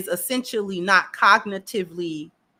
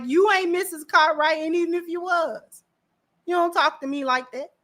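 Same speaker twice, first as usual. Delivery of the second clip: higher-pitched indignant comeback; playfully affronted retort; mock telling-off; 5 semitones higher than usual. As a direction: imitate someone putting rude people in their place. Acting out him checking the interviewers.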